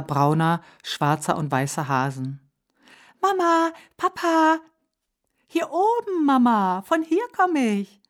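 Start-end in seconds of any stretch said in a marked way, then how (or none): 3.2-8.0 calling out. Acted. Calling down to parents from above.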